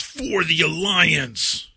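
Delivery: drawn-out, slow rallying cry; mock announcement. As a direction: announce it grandly, half-hearted volume. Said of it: "every so often just announce".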